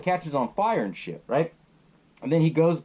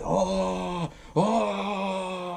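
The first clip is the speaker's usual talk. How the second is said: drawn-out mock monster yell, raised in pitch; imitated scream; 5 semitones higher than usual. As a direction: imitate a killer screaming, held back in volume. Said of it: "he's screaming at Mary Beth".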